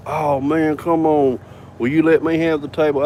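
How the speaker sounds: lightly mimicked pleading girlfriends; retold begging. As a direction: draw it out in a mild mock plea. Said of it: "coming over begging me".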